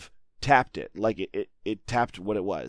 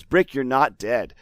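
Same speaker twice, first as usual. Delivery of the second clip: slow, louder mock insistence; plaintive; 2 semitones higher, 5 dB louder, slower than usual. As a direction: imitate pleading with someone who will not understand. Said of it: "plaintively trying to explain".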